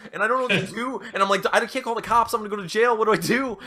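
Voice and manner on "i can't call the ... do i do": high-pitched mock panic; acted freak-out. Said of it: "freaking out".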